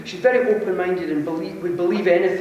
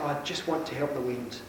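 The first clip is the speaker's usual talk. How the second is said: much softer, feeble, like someone ill with flu; weak sick voice; 5 semitones lower, 12 dB quieter than usual. Retold or imitated. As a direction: imitate a sick friend barely getting words out. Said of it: "she was really ill".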